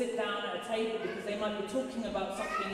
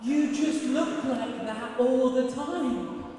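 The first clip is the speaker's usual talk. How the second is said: mock realization; 5 semitones higher, 3 dB louder, much slower than usual. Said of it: "And I was like".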